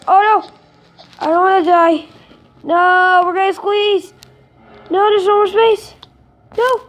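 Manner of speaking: mock panic. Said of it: "Okay, just kidding".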